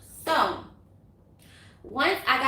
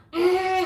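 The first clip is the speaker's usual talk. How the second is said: imitated car horn; 7 semitones higher, 5 dB louder than usual. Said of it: "'cause I'm blowing the horn".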